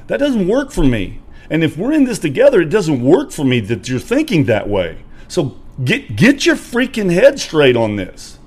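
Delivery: loud, high, slow, hammering each phrase; angry friend demanding he get his head straight; retold furious rant. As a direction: chew him out while pounding the wheel. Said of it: "I'm pounding on my steering wheel".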